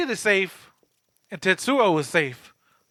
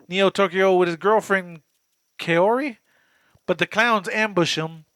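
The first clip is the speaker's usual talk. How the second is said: steady read-aloud voice; reading a plot summary. Acted. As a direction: read the synopsis to the group.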